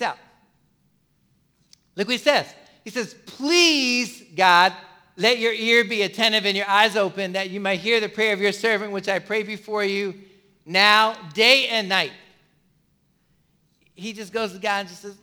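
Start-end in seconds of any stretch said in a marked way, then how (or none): 3.3-12.1 pleading prayer. Acted. Preacher voices Nehemiah's plea.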